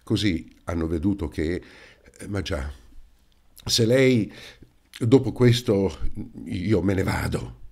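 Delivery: a touch of choked-up anguish, pushing out the words; lightly voiced man near tears; mild strangled sorrow. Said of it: "come strozzato dall'angoscia aggiunse".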